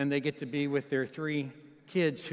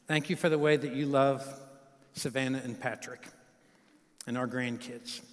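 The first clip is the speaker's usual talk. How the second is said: a dad talking; 2 semitones lower than usual. Real, not acted. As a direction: speak gently as the bride's father. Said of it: "That's a dad talking".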